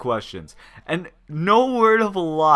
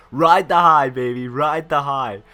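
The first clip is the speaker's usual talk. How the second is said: cocky gambler; 6 dB louder than usual. Retold or imitated. Gambler's cocky reply, quoted.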